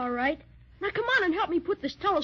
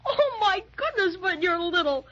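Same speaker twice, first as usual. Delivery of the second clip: laughing; 3 semitones higher than usual. Acted. Sees sister tiny through telescope.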